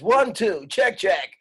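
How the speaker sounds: high, loud mic-check call; hosting voice. Shown as a demonstration. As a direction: call it out like a host testing the mic. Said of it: "Use your hosting voice".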